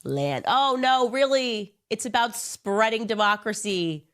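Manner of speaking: lightly voiced greedy coo turning to high fake surprise; hammed-up grab for land, then feigned innocence; mock Bibi, greedy then innocent. Bibi caught wanting land, mock greedy then innocent. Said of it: "Bibi is over here like".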